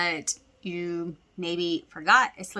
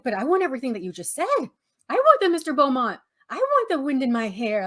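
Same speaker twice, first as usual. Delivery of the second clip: fast, pleading wanting; eager Joey; 4 semitones higher, faster than usual. Retold or imitated. Joey wanting the yacht from Rachel's story, fast eager pleading. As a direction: rush out every want like a greedy kid. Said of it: "He's like".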